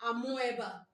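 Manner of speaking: Amoeba said a-mo-E-ba, O and E both sounded; spelling pronunciation. Shown as a demonstration. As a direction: say Amoeba as it is written, a-mo-eh-ba. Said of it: "amoeba is not the right pronunciation".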